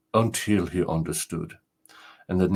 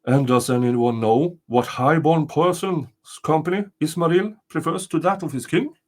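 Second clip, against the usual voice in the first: angry king; 7 semitones higher, 3 dB louder than usual. Acted. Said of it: "very angry".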